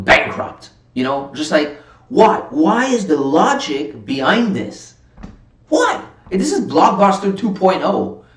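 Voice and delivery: high-pitched exasperated rant, pitch swooping up on each "why"; getting emotional. Real, not acted. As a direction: vent in real, incredulous frustration. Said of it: "now I'm getting emotional".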